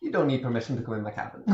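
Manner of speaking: put-on Irish accent. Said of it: "this is a good accent".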